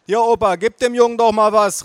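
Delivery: high, loud shout; calling mother. A narrator's reading. Mother wanting money for boy, calling out. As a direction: call out to grandpa. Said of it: "rief meine Mutter".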